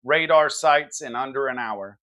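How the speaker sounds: hard-hitting political commentary read; punchy news monologue. Acted. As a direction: deliver it like a cable news opener. Scripted news-style opening monologue.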